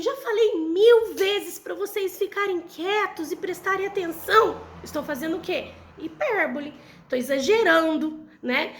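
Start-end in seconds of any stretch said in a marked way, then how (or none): 0.0-4.6 higher, exasperated scolding of the class; scolding teacher. Shown as a demonstration. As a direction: tell the class off, fed up. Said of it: "eu olho pra vocês e falo assim". (bronca de professora exasperada)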